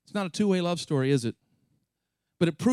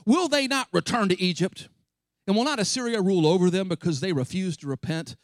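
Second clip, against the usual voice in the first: anger rising; 3 semitones higher, 4 dB louder than usual. Acted. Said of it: "the anger rising".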